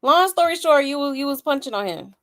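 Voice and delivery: a playful impression of her catchphrase; mock imitation of her. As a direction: say it like she always says it. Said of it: "like she like to say".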